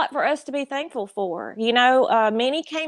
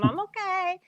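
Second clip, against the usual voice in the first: reassuring; 7 semitones higher, 5 dB quieter than usual. Retold or imitated. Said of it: "I have to tell him".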